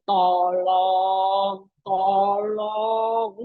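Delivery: lazy, sing-song mock plea; casual half-hearted plea. Preacher mocks a lukewarm prayer, lazy sing-song. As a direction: toss off a careless, lilting please. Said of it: "nggak mungkin memohonnya bilang gini".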